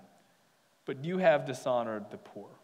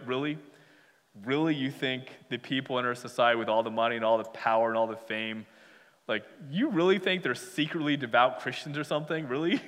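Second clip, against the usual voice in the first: fast, mocking disbelief; sarcastic; 3 semitones lower, faster than usual. Preacher voicing James scoffing at the rich, sarcastic. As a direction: scoff at the idea like a wry New Yorker. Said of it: "Very sarcastic here".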